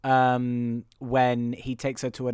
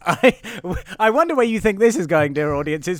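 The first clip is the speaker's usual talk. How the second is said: louder, theatrical showman voice; mock clown voice; 4 semitones higher, 8 dB louder than usual. Clown teasing the audience, louder and theatrical. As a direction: play the clown teasing the crowd.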